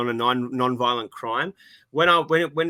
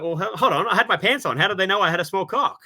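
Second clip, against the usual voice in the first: higher, laughing indignant protest; indignant mock outrage; 6 semitones higher than usual. Joke punchline, own voice quoted.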